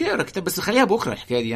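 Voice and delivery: light, quick coaxing voice; tempting devil voice. Retold or imitated. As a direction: sweet-talk them into putting it off. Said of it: "يقولك".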